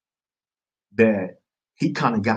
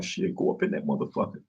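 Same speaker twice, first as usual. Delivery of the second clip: hushed urging; 7 semitones lower, 7 dB quieter than usual. Retold or imitated. Homie urging him on.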